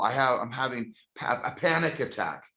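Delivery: play-acted choked-up voice, catching, stumbling, words breaking off. Retelling what a son said when he came clean: imitating choked-up voice. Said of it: "choked up".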